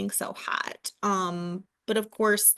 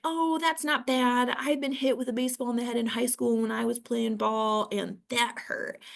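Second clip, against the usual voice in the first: dismissive husband; 3 semitones higher than usual. Retold or imitated. Husband downplaying her injury, mildly dismissive. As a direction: shrug off the injury like it's nothing. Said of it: "my husband was like".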